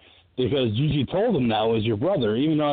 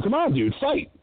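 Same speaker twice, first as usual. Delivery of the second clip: coaxing Karihara; 3 semitones higher than usual. Retold or imitated. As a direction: urge him up like a desperate rival. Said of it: "Karihara trying to pick him up and go".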